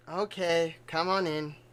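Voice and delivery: mopey, dejected, gloomy depressed voice. Voicing a character who lets another in: depressed character voice. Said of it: "he sounds so depressed".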